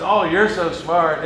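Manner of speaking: lightly voiced flatterer, slowed; slow mock praise. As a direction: drag out the compliment sweetly. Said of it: "And they said".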